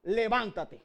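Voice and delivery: loud ringing call to rise; commanding call. Retold or imitated. Jesus calls the widow's dead son to rise, loud and commanding. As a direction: raise the dead young man with a loud command. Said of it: "Y Jesús le dijo".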